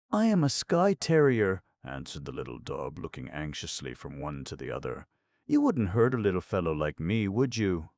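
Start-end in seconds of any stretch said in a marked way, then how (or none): 0.1-1.6 very high, loud little dog voice; little anxious dog. Acted. Dog answers the astonished clown, little dog voice. 5.5-7.9 high, quick, louder pleading; anxious little dog. Acted. Dog pleads with clown and lion, anxious little dog.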